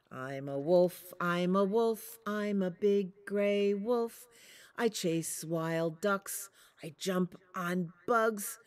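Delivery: lightly voiced proud father wolf, steady chant; a big gray wolf boasting in rhythm. Big Wolf's chant again.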